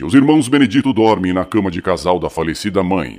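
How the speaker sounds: measured narrator voice; story narration. A narrator's reading. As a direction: narrate the scene aloud. Narrator sets the scene.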